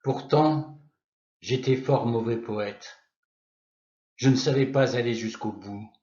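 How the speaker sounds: measured poetry reading with long pauses between lines; poem recitation. Acted. Narrator recalling his adolescence in Moscow, poem recitation. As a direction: recite it as verse, line by line, letting each image settle.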